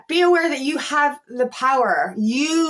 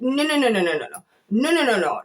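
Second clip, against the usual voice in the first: dismissive. Retold or imitated. Tells off her own ego.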